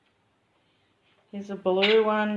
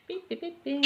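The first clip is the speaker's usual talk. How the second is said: bird beeps; 8 semitones higher, 10 dB quieter than usual. Retold or imitated. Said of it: "Always saying something".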